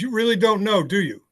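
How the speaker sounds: imitating a pointed, high-pitched challenge; mildly belligerent woman, retold; retold belligerence. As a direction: press them, high then easing down. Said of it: "she's a little belligerent".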